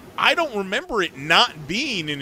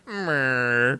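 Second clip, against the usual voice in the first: unimpressed meh; 3 semitones lower than usual. Retold or imitated. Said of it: "she kinda gave me".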